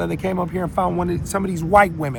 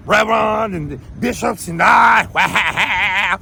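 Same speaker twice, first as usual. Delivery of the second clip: drawn-out shout; 2 semitones higher, much slower than usual. Real, not acted. Drawn-out shout naming preachers.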